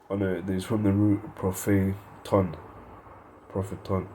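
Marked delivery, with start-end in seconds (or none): 1.4-2.6 "propheton" sounded out by syllables; careful Greek pronunciation. Shown as a demonstration. Teacher showing listeners the Greek root, careful pronunciation. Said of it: "that's how you pronounce that". 3.5-4.1 "Propheton" as a careful Greek word; careful Greek pronunciation. Shown as a demonstration. Teacher repeating the Greek root, careful pronunciation. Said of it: "that's how you pronounce that".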